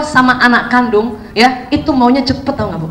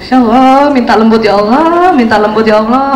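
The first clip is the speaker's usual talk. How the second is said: earnest plea; 4 semitones lower, 4 dB louder than usual. Shown as a demonstration. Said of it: "harus diminta".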